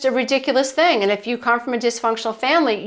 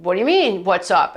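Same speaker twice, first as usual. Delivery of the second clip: lower, falling "what's up?" as the dad, mildly baffled; dad's puzzled reply; 3 semitones lower than usual. Retold or imitated. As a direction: drop "what's up?" low at the end, lightly imitating the dad. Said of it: "he's like".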